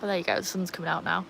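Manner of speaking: ordinary delivery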